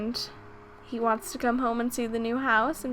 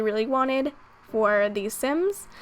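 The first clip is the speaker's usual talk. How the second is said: ordinary delivery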